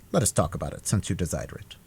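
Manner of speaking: softly yielding Aramis; patient. A narrator's reading. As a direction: give in patiently. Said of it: "replied Aramis patiently".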